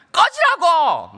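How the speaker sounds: high, loud, drawn-out mock shout; retold defiant yell. Son yelling back at his father, defiant. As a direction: imitate a teen insisting at full pitch. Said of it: "막 이러면".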